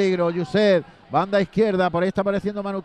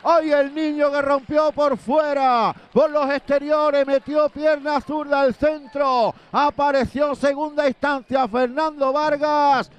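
high, slow, emphatic celebration; excited goal recap; 5 semitones higher, slower than usual. Real, not acted.

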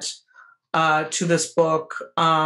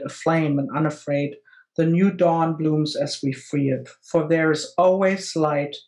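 poem reading. Acted. Reads the poem aloud.

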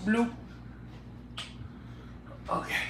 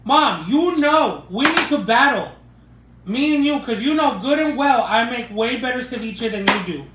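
playful challenge; 4 semitones higher, 6 dB louder than usual. Acted. Daughter challenging her mom to a ceviche battle, loud and high. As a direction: throw down the gauntlet, half-joking.

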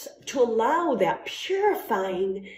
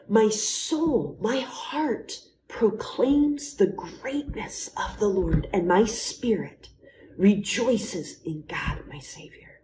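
prayerful recital; slower than usual. Acted.

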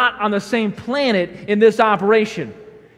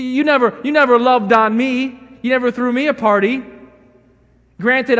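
whining elder son; 2 semitones higher, 5 dB louder than usual. Acted. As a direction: grumble at father about unfair treatment. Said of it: "I think that's how he talked".

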